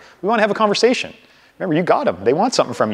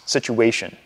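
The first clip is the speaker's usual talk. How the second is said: situation said slowly and deliberately, every syllable clear; enunciated; 4 semitones lower, 5 dB quieter, slower than usual. Shown as a demonstration. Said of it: "enunciate, enunciate it".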